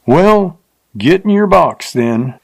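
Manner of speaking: telling her to climb up; rough man, mocking. A narrator's reading. Rough man's dialogue.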